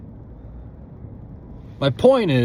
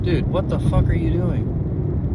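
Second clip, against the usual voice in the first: irritated. Real, not acted. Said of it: "I'm so cranky".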